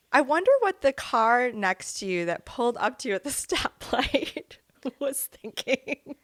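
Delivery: giggling through the words; laughing while talking. Real, not acted. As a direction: let the laugh break in.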